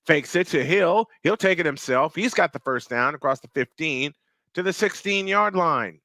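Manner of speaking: steady football commentary; live play-by-play. Real, not acted. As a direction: call the snap and run as it happens.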